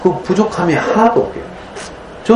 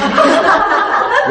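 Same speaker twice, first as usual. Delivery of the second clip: breathy laugh. Real, not acted. Laughing about son's soup.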